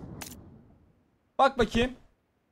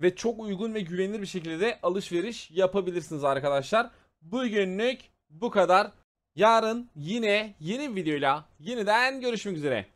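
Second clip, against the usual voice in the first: steady outro pitch to subscribers; youtuber outro; 2 semitones lower than usual. Acted. Streamer thanking viewers at the end, outro voice. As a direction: wrap up the video and ask for likes. Video outro over music.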